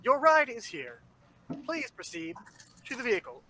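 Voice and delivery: flat robotic announcement over a loudspeaker. Pretend. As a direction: speak like a robotic truck loudspeaker. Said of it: "a loudspeakered robotic voice".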